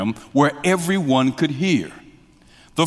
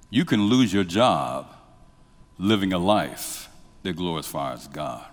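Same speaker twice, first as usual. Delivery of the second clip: ordinary talk, nothing marked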